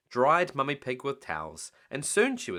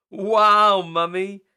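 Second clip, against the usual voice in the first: high, loud amazed wow; be dazzled; gasp of wonder; 8 semitones higher, 11 dB louder, much slower than usual. Acted. Peppa amazed at Mummy's catch, high and loud. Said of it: "gasped Peppa".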